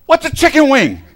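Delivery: loud, high, laughing confusion; baffled yelp. Retold or imitated. Pinned young wrestler asks his coach, loud laughing bewilderment. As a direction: cry out, lost and laughing. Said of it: "I go".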